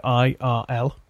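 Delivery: careful, spaced-out initials; slow, unsure. Real, not acted. Podcast host unsure of a racing series, saying its initials slowly. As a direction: spell it out slowly, letter by letter. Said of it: "I say it slowly".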